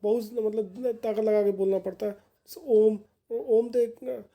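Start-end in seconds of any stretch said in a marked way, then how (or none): 2.7-4.2 "ओम" stretched slowly and long; prolonged vowel. Shown as a demonstration. Teacher demonstrating the extended vowel to students, slow and drawn out. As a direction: pull the vowel in "ओम" out slowly, like a chant. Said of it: "बहुत लंबे तक खींचते हैं".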